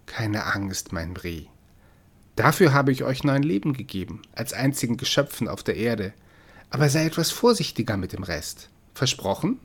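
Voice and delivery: like licking a frightened kitten's ears; comforting. Acted. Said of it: "tröstend wie eine raue Zunge".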